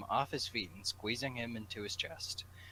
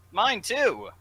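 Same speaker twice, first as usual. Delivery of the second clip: much higher and louder squeak; high Wade voice; 13 semitones higher, 14 dB louder than usual. Acted. Wade agrees with Bob, high and loud. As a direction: pitch it way up for Wade. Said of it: "Wade said".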